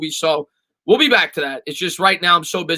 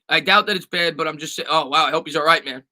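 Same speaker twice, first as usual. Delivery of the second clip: normal talking voice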